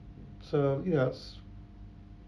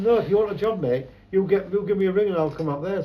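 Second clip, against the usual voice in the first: quoted bloke; 4 semitones higher, 4 dB louder than usual. Retold or imitated. Retold Spanish job offer.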